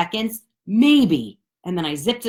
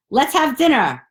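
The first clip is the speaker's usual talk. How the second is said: mock eager friend; 8 semitones higher, 5 dB louder than usual. Imitating friend inviting.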